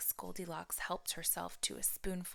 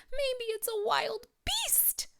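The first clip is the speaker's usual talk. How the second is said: high, slow fretful mother bear; Mama Bear, worried; 4 dB louder, slower than usual. A narrator's reading. Narrator voices Mama Bear fearing an intruder, high and slow. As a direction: lift way up and wonder anxiously. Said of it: "asked Mama Bear".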